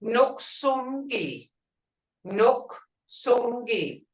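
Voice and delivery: Noksongi said slowly with a husky, losing-your-voice sound; slow Creek word demo. Shown as a demonstration. Teacher slowly models Noksongi for the class, husky. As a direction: draw out Noksongi as if your voice were going. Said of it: "like you, when you're losing your voice".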